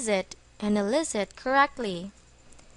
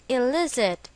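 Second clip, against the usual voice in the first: "illicit" stressed on the middle syllable, LIS; stress on second syllable. Shown as a demonstration. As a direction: say "illicit" as a model word, punching LIS. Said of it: "with the stress on the second syllable".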